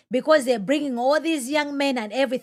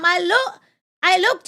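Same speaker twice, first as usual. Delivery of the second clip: normal talking voice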